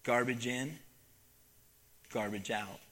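solemn refrain. Acted. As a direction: let the moral sink in quietly. Solemn moral of the story.

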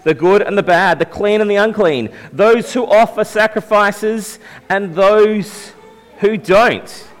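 lightly read-out scripture quote. Acted. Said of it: "he says".

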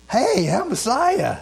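high, loud proclamation of Messiah; mock shout. Preacher voicing Jesus announcing himself, a high loud call. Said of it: "that is shouting".

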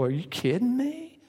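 Mary pleading with Gabriel, hammed-up dismay; imitating upset Mary. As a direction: protest to the angel that your life is ruined. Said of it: "Mary could have said to Gabriel".

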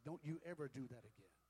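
loud, emphatic telling-off; mock scolding. Startled husband telling off his wife, loud mock scolding. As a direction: scold hard, as retold for laughs.

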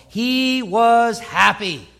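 slow, drawn-out ironic "happy"; sarcastic. Acted. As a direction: stretch it out with heavy irony. Ironic reading of Sanballat's reaction.

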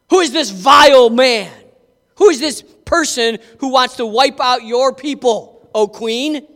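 a king demanding a name; outraged king. Acted. King demanding the villain's name from the queen, loud and indignant.

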